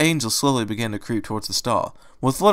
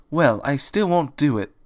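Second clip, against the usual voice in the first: slow, higher stubborn refusal; meek stubbornness; insisting; 4 semitones higher than usual. Acted. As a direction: dig in gently. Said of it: "Fluttershy insisted".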